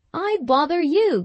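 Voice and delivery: taken aback, voice going up; natural surprise. A narrator's reading. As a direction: ask it in startled disbelief, pitch lifted. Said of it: "cried she, in very natural surprise".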